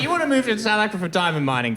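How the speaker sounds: quick, high mock question; fast put-on questioning; mock reasoning. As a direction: rattle it off as an acceptable premise. Acting out his reaction to the choice.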